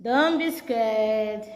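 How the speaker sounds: slow, gentle coaxing; slow comforting. Real, not acted. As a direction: ease her fear, drawn out. Comforting a scared patient.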